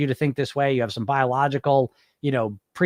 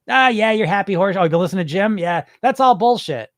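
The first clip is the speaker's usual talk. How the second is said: louder, scoffing mock dismissal; acted derision, pushed and dismissive; sneering inner critic; 4 semitones higher, 4 dB louder than usual. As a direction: scoff at the idea as a jeering inner voice.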